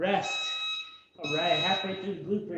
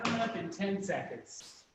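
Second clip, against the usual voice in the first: breathy whispered cue; whispering; 5 dB quieter than usual. Real, not acted. Cue between workout rounds.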